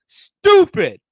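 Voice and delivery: high, loud scornful stupid; ranting at the reporters, one loud scornful word; scornful shout. Real, not acted.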